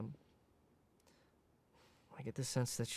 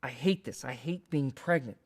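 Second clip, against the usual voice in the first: crying mother; 5 dB louder than usual. Retold or imitated. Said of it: "She's crying".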